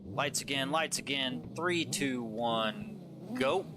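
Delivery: energetic live race commentator voice; play-by-play commentary. Acted. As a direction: call the drift battle as it happens.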